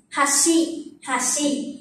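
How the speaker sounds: "Hashi" starting low, going up on shi; low-to-high pitch accent. Shown as a demonstration. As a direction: begin "Hashi" down, then lift shi. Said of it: "Nói lên".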